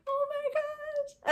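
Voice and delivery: high, slow, breathless "oh my gosh"; stunned gasp. Retold or imitated. To the nurse at the ultrasound, stunned high disbelief. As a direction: let it fall out of you in disbelief. Stunned at hearing twin heartbeats.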